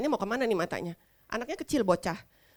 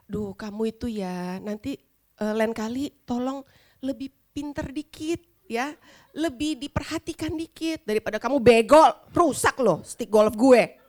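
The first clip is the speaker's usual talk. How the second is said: mock scolding. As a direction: lecture him about the golf club. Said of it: "kayak dia marahin orang". (omelan pura-pura yang makin keras)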